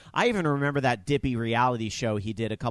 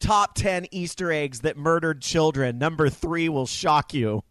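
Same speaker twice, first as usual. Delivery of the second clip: clickbait video narrator; 4 semitones higher, 4 dB louder than usual. Pretend. Mock clickbait title read aloud.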